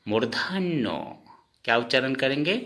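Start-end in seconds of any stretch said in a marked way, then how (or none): 0.1-0.9 मूर्धान्य as "mor-dhain-no"; Assamese letter name. Shown as a demonstration. Teacher naming the letter for learners, मूर्धान्य said "mordhainno". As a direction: hold the double n in मूर्धान्य, ending on "o". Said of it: "असमिया में उच्चारण करेंगे".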